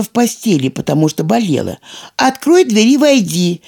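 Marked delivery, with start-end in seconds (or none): 2.2-3.6 calling out. A narrator's reading. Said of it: "крикнула она".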